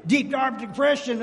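hammed-up doom-laden groan; mock gloom. Preacher mocking the believer stuck in gloom, hammed-up groan. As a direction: drag it out like a self-pitying sulk. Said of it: "walk around like this".

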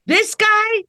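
can't believe this guy is their sane one; incredulous disbelief. Retold or imitated. Talking about Adam Schiff on TV, voicing her own stunned disbelief. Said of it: "and I'm like".

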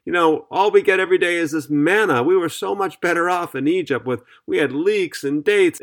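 a touch of complaint, as retold; mock grumbling. Preacher voices Israelites grumbling about manna in the wilderness, mildly complaining. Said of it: "they began to grumble, saying".

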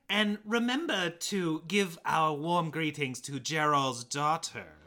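slow, measured mock-formal order; put-on stately command; regal instruction. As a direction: deliver it slowly like a ruler to an envoy. Voicing a queen's formal order.

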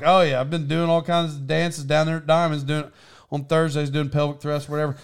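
quick, casual run-through of the list; rattled off fast. Retold or imitated. Telling grandma about dancing, rattled off quickly. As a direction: toss it off fast, barely separating the items. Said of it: "set it real fast like that".

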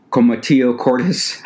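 comatio cordis with a light mock Spanish accent; playful Spanish accent. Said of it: "with some Spanish accent".

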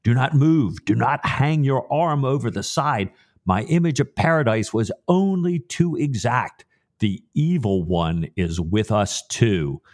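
retelling a tense whispered-urgent warning with a touch of shock. Retold or imitated. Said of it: "in a shocked voice".

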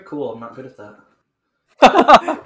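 slow, loud, laughing through the words. Real, not acted. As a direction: laugh it out at your own bad luck. Laughing at bad history roll.

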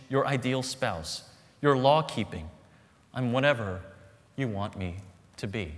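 idol speaking in a lightly voiced seductive tone; poem reading. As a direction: read the poem as the idol wooing you.

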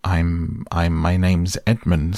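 halting, stumbling over I'm; a boy fumbling for his own name; awkward, hesitant stammer. Acted. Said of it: "said Edmund rather awkwardly".

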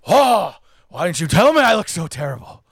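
exclaimed "Oh", then mock-aggrieved impression; hammed-up film star complaint; Al Pacino. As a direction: imitate a theatrical actor grumbling. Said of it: "he goes".

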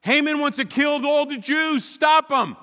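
loud, high, urgent blurt; blunt demand. Pretend. What we would tell the king, loud blunt demand. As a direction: demand it straight out, no tact. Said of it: "here's what we say".

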